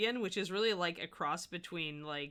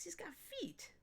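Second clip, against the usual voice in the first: proud announcement; 12 semitones higher, 10 dB quieter than usual. Real, not acted. Repeats proudly to chat.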